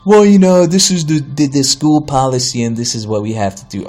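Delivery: clerk's voice. Retold or imitated. Clerk citing school policy to a customer, lightly put-on voice. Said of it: "doing the voice".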